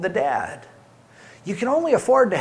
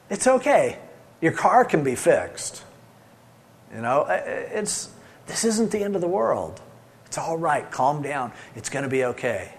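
reassuring. Acted. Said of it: "Or I've learned over the years".

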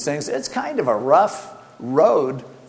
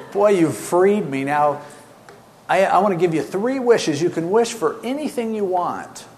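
a hint of a grand genie; 4 semitones higher than usual. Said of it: "an angel ... came out and said".

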